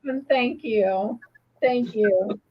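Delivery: slow, choked-up thank you through tears; barely holding back real crying; tearful thanks. Real, not acted. The speaker thanking her tearful friend, slow and choking up.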